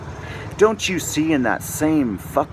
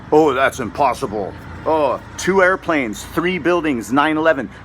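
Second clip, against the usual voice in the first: mocking doubters.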